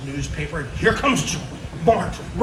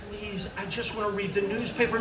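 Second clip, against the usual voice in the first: weary dad; 3 semitones higher, 7 dB quieter, faster than usual. Acted. Weary dad begging for peace.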